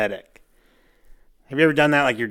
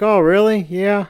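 surprised; 7 semitones higher, 5 dB louder, slower than usual. Retold or imitated. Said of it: "And Cliff's like".

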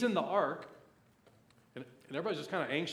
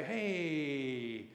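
Miriam; slower than usual. Acted. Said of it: "right there is Miriam to say".

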